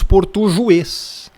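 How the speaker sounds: "portujuês" with a j sound and voiced u; wrong, soft g. Shown as a demonstration. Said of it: "e muito menos".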